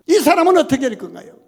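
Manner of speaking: loud, quick, amused retelling of Peter's question; laughing mock Peter. Pastor mimics Peter asking about John, laughing. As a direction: poke fun at Peter's meddling. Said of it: "베드로는 다른 사람 걸고 넘어져요".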